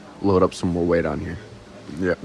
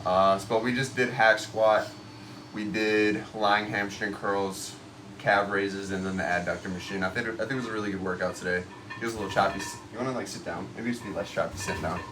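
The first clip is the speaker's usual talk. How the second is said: echoey locker room, far from mic; recorded in an echoey locker room; 9 dB quieter than usual. Real, not acted. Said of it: "We're still in the locker room right now".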